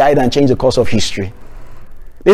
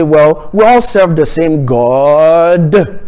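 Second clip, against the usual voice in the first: mock common saying; much slower than usual. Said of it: "everybody sometimes say".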